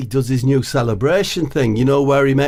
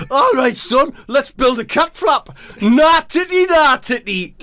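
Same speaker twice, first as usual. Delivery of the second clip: laughing through it; 12 semitones higher than usual. Real, not acted. Voice breaks while laughing.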